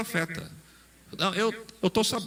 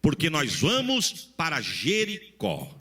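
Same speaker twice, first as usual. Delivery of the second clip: slow quote; slower than usual. Retold or imitated. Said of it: "Elias olha pra Eliseu e diz assim".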